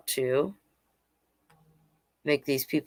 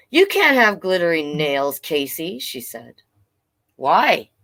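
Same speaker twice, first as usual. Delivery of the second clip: story narration. A narrator's reading. Reads picture book aloud.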